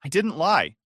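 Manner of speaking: defensive. Acted. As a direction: deny it fast, on the back foot. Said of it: "she said defensively".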